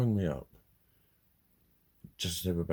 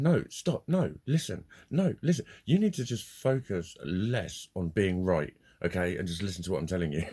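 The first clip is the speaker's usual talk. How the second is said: losing it, retold; 3 semitones higher, 5 dB louder than usual. Owner putting caller in his place, retold angry reprimand. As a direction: talk over him, re-enacting an angry telling-off. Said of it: "I basically lost my fucking shit".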